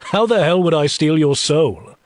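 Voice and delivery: amused, high-pitched incredulity; humorous. Acted. Demon answering her fear for her soul, amused. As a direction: pitch it up, poking fun at the idea. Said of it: "I ask with humor in my tone".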